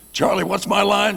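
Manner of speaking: high, loud, frantic question; panicked plea. Retold or imitated. Bobby begs the stunt guy for his forgotten line, high loud panic. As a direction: blurt it in sudden panic.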